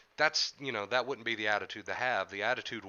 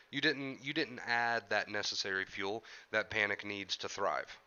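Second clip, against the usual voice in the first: stuffy, congested nose; blocked nose. Real, not acted. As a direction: talk through a blocked nose. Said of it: "I know I sound a little snotty today".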